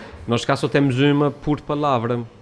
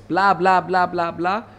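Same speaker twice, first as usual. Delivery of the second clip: high sing-song blá blá; blá blá mimicking the open Brazilian sound; mock Brazilian chatter; 7 semitones higher, much slower than usual. Portuguese speaker mimicking how Brazilian Portuguese sounds. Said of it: "o brasileiro ouve-se".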